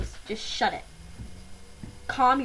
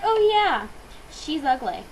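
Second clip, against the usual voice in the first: higher, mocking mean-girl voice; mock catty girl; 5 semitones higher than usual. Classmate gossiping about a girl, mocking higher voice. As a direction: pitch it up and imitate a catty classmate. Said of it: "She's just like".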